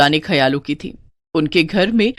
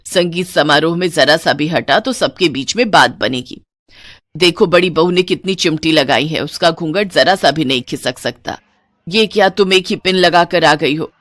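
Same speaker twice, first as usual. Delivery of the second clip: put-on lower, firm old-fashioned mother-in-law; stern mother-in-law; 3 semitones lower than usual. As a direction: lay down the house rules to the new bride. Mother-in-law instructs at gathering.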